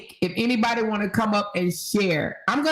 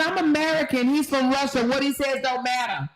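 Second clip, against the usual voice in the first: higher, haughty mimicry; mock entitled woman; 4 semitones higher than usual. Host mimicking the woman, haughty mock entitlement. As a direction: look down on him. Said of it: "She says".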